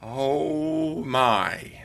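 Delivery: awed gasp. Retold or imitated. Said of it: "and it's like".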